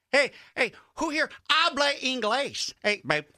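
loud, high showman impression as a math teacher; hammed-up entertainer teaching a class, pitched high; a singer. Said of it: "That was a singer".

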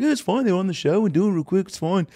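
high mock-British reassurance; a singer. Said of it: "He's like".

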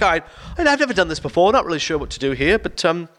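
hesitant and unsure, with little fillers; uncomfortable client. Retold or imitated. Retired teacher nervously greeting a hired gigolo, awkward and hesitant. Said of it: "she's so uncomfortable".

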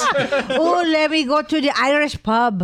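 shaky attempt at an Irish accent; unconvincing, playful Irish. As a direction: try an Irish brogue for laughs. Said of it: "don't know about that Irish".

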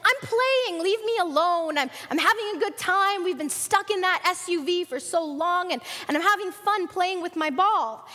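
put-on mild kid's whine to be left alone; protesting son. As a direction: complain like a boy who wants to keep playing. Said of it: "his son said".

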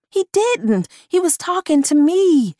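high, urgent protest. Acted. Honeysuckle protests.

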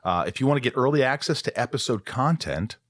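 easy, friendly sponsor read. Acted. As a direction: sell the Patreon warmly. Podcast ad read.

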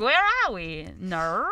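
mock Australian, "No" as "naur"; Australian accent. Guest mimicking Australians for the host, mock Australian accent. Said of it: "how I feel about Australian accents".

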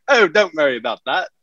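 breezy British brush-off; British accent, tossed off lightly; British accent slipping out. Retold or imitated. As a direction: let the British accent slip, casually. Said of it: "I slip up".

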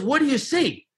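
mentor's high-pitched challenge, lightly imitated; Harry. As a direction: quiz the pupil as a mentor would. Mentor challenges him in story.

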